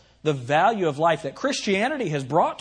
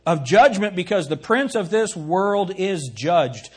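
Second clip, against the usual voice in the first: measured, raised preacher's reading of scripture; 3 dB louder than usual. Acted. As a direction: declaim the verse with weight. Reads scripture aloud.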